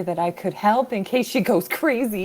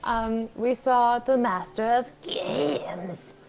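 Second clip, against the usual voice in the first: attempted British accent. Player recapping the last session for the group, attempted British accent. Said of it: "worse British accents".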